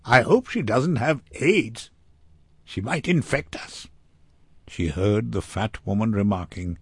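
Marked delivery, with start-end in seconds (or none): 0.0-3.9 high-pitched, catty aside meant to be overheard; pointed gossip with raised, swooping pitch; pointedly audible remark. A narrator's reading. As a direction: say it so the victim hears. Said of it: "loud enough for her to hear".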